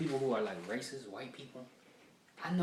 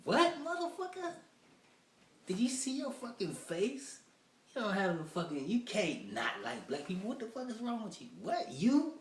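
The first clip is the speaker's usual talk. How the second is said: much higher, incredulous yelling; reacting to a racist's face, much higher; outraged disbelief; 10 semitones higher than usual. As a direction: shriek in disbelief at him. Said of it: "You like".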